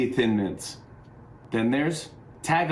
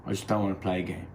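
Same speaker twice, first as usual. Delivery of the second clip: Ricky impression; 2 semitones lower, 4 dB quieter, faster than usual. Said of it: "He said".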